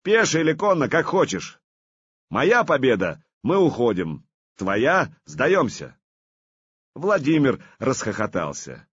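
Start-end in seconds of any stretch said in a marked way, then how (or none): 0.0-6.0 raised voice. Acted. Artyom sets duel terms.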